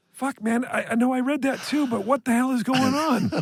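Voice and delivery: high, exasperated disbelief; sing-song at the absurd news; baffled viewer. Retold or imitated.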